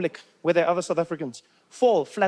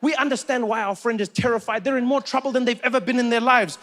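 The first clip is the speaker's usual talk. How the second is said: ordinary talk, nothing marked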